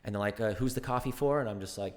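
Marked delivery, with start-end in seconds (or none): 0.5-1.4 lightly imitated American accent, pitched up; American barista. American server asking customer in line, imitated American accent. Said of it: "in an American".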